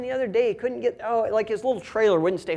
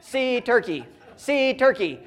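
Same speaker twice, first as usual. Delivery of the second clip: put-on insistent toddler; 3 semitones higher, slower than usual. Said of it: "he says".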